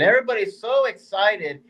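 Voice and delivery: mock-admiring, laying on the praise; sarcastic. Real, not acted. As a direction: gush with tongue in cheek. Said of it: "I'm being sarcastic".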